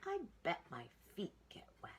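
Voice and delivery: a playful aside; mother pig. A narrator's reading. Mother pig before jumping in, light playful voice. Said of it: "She said".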